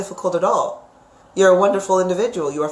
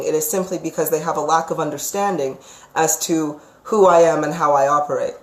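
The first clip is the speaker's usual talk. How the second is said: usual speaking voice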